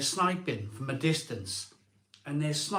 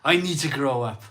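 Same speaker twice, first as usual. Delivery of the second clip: louder, pressing down on I; louder insistent repeat; 5 dB louder than usual. Retold or imitated. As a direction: say it again like scolding yourself. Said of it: "you look in the mirror and you go".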